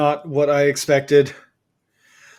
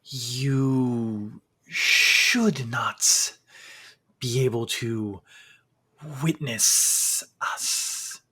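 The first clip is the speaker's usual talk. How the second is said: very slow, soft, otherworldly voice; eerie museum figure; 2 semitones lower, 7 dB quieter, much slower than usual. Acted. Strange figure warning the intruding adventurers, slow and eerie. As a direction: drag each word out, uncanny and hushed.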